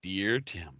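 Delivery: low, soft radio dedication voice; Casey Kasem. Acted. Host opening a reader's letter to Tim, radio-host impression. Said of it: "it's the Casey Kasem thing".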